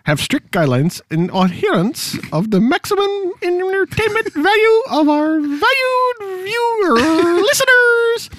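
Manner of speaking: lightly voiced stuffy lady official reading a notice; mock official lady. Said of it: "I've turned into a woman at this point".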